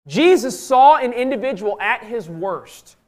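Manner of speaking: slow, loud and high pulpit delivery; emphatic preaching. Real, not acted. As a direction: drive it home slowly, with force. Preacher driving the point home.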